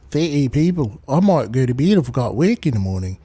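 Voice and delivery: rough attempt at a New Zealand accent; lightly put-on, shaky-quality New Zealand accent. Shown as a demonstration. Streamer trying an accent for chat, bad New Zealand accent. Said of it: "I've tried to do a New Zealand accent".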